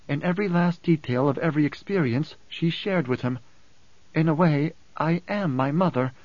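a hint of Alia, explaining herself; lightly voiced, assured Alia. Alia explains her inherited memories to Hayt, lightly voiced and assured.

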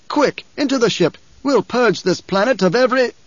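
high, urgent shouted order. A narrator's reading. Emperor orders in panic.

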